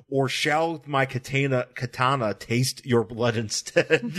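slow, grand mock-menacing line; dramatic samurai threat. Kimo taunting the fleeing ninjas, slow hammy menace. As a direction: ham up a samurai's threat, slowly. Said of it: "the Kimo's like".

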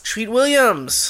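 sudden excited gasp before the name; gasp, then say it like a discovery; gasped realization. Real, not acted.

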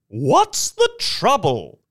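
high, stretched-out cry of alarm; high, anxious outcry. A narrator's reading. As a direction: cry out, demanding to know. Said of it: "a woman cried".

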